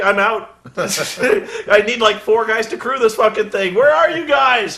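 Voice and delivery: frantic soldier calling. Retold or imitated. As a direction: yell for your missing crew. Ballista guy calls for help.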